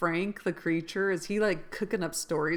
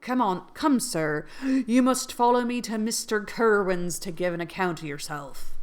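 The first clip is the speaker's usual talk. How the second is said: light Irish lilt, louder; a hint of an Irish accent; 3 semitones higher, 5 dB louder than usual. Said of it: "Is that Irish?".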